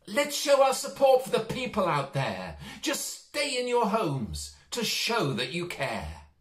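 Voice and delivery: Harry the mouse calls to friends to stay home, shouting. Acted. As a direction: call it across the village to your friends. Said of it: "he shouted to his friends".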